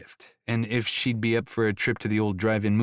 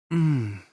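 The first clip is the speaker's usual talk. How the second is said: sensual purring mmm; 5 semitones higher, 3 dB louder than usual. A narrator's reading. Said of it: "with a sexy little purring sound".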